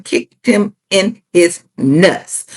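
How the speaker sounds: slow, spaced-out "Kicked him in his nuts"; deliberate emphasis. Real, not acted. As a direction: land each word of "Kicked him in his nuts" separately, slowly. Drives home the point by repeating.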